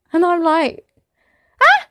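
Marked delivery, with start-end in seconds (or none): 1.6-1.9 short, sharp "ah!"; retold gasp of surprise; mock surprised gasp. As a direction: let out a startled little cry. Retold reaction to the voice.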